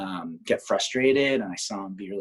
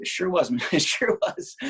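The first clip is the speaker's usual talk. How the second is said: delighted confirmation; 7 semitones higher than usual. Retold or imitated. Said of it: "I said".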